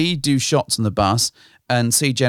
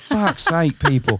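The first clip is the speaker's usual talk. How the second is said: mock exasperation; 7 semitones higher, slower than usual. Exasperated at people crossing the road.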